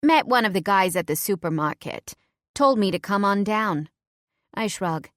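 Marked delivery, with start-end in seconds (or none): 0.0-3.9 put-on a sharp New York accent, a touch louder. Undercover woman lying to Heather in a sharp New York accent. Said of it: "my New York accent nice and sharp".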